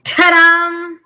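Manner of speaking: ta-da. Real, not acted. Presenting the result.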